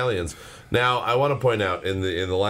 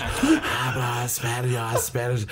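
whispered, then mock-Spanish gibberish chant; mock tongues whisper; 2 semitones higher than usual. Retelling the singer's mic babble, hushed mock Spanish. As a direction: imitate a friend babbling fake Spanish into the mic. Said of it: "it just sounds like he's going".

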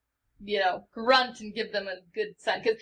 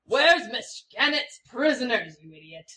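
harsh, raised lordly rebuke; angry lord; 2 semitones higher than usual. Acted. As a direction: berate him like a haughty lord. Disguised lord berating guards.

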